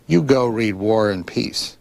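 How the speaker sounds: put-on slow, mildly stern old lady's order; stern command. Old Russian lady ordering a boy to read, lightly stern. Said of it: "she looked at me very sternly".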